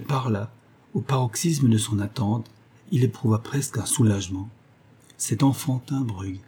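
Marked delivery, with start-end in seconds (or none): 5.2-6.4 a weary, defeated sigh of a line; resigned. Acted. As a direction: give up on him as you say it. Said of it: "dit-elle d'une voix résignée".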